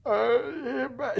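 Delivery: high, soft stuck noise; speechless whimper. Retold or imitated. Bully scared of the mom, speechless whimper. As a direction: mimic someone too scared to form words. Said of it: "she couldn't talk".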